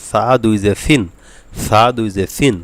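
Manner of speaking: Arabic th in সা, সিন; tongue-tip Tha. Shown as a demonstration. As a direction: drill সা দুই জের সিন with th for the s. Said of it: "জিহ্বার আগা দিয়ে".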